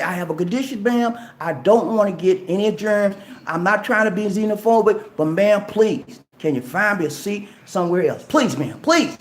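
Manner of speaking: courteous request for another seat, pleading please; polite pleading. Shown as a demonstration. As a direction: ask very nicely, almost begging. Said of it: "You say it just like that".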